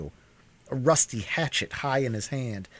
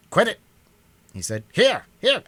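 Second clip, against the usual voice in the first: high, loud frantic cry; alarmed shout; 12 semitones higher, 8 dB louder than usual. Acted. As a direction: shout to make him stop. Struggling with an attacker.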